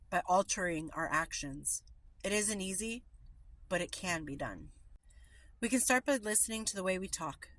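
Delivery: steady recovery reading read aloud; meeting reading voice. Acted. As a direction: read the daily text to the group. Reads daily meditation text aloud.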